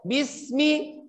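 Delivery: bismi with lips drawn back, thin s; thin sin. Shown as a demonstration. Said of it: "silakan tarik bibirnya".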